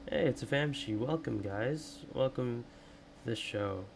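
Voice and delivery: talking with a stiff, sore jaw; barely opening the mouth, jaw aching. Real, not acted. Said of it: "I do apologize for the way I sound".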